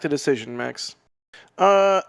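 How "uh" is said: laughing. Real, not acted. Teasing a chatter's name, laughing.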